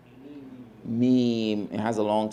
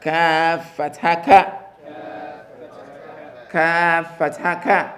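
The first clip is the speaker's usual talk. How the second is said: slow, drawn-out model recitation; teacher drilling slowly; slow spelling drill; slower than usual. Shown as a demonstration. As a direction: spell it slowly for the class to repeat. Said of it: "you spell it to me as kaf fatha ka".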